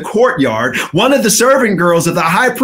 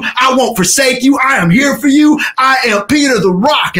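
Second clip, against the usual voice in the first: bold vow; 4 semitones higher than usual. Acted. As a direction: promise with swagger. Peter's boastful promise recalled.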